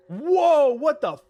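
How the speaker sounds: loud, high-pitched astonishment; startled shout, pitch leaping up; real shocked outburst. Real, not acted. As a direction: blurt it out in loud disbelief. Startled by something in the game.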